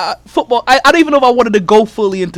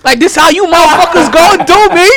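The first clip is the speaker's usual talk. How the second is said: loud, wounded protest; indignant, raised voice; mock outrage; 3 semitones higher, 5 dB louder than usual. Real, not acted. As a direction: complain loudly as the butt of the joke. Host protests being roasted by co-hosts.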